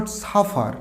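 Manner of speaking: suffer as "saa-faar", Bengali style; the wrong suffer, final r meant to sound; common mispronunciation. Shown as a demonstration. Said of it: "শেষে আরটা silent হবে".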